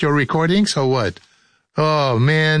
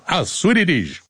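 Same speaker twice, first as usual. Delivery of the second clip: ordinary delivery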